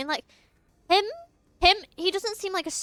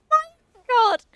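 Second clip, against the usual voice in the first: higher laughing exclaim; laughing disbelief; 10 semitones higher, 8 dB louder than usual. Real, not acted. Streamer laughing at the aura comment, high and amused. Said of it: "laughing disbelief".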